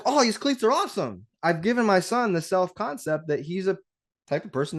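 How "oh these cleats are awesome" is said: put-on higher, thrilled young son; delighted kid. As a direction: gush over the cleats like a kid. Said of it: "He'd be like".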